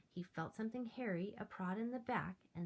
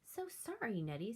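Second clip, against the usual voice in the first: glum apology; 4 semitones higher than usual. Acted. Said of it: "sighed George with feeling glum".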